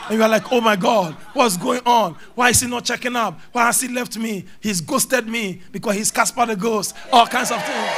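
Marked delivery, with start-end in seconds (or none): 0.5-6.9 acted distress. Acts out a dumped person's panic.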